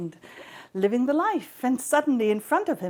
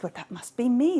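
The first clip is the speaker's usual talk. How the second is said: eager claim; 5 semitones higher than usual. Acted. Goddesses claiming the apple.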